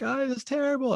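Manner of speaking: frightened client voiced way up high; crying client. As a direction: imitate a sobbing client near a snake. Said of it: "They're like".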